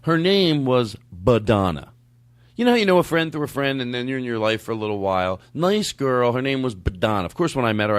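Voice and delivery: ordinary delivery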